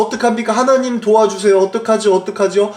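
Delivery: mildly acted panic, questions tumbling out; imitated panicked crying out. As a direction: plead for help like a frightened crowd. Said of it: "막 소리쳤어요".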